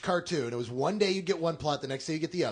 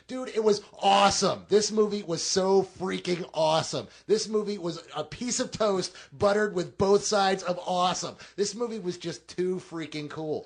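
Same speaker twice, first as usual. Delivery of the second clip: excited; 2 semitones higher, 5 dB louder than usual. Real, not acted. Raving about the movie.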